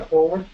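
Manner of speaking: "forward" with the R dropped; "forward", first R left silent. Shown as a demonstration. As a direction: say "forward" without sounding the first R. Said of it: "la R no suena".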